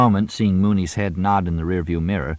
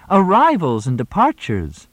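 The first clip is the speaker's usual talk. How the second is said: high loud echo; 11 semitones higher, 6 dB louder than usual. A narrator's reading. Moxie echoes much higher, louder.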